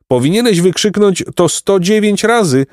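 high-pitched little bee voice; parting retort from a tiny insect; lightly voiced bee character; buzzing bee. A narrator's reading. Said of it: "brzęknęła pszczoła".

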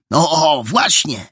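eager, high-pitched cry; excited exclamation. A narrator's reading. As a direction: exclaim it as if struck by the point. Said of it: "wykrzyknął Perełka".

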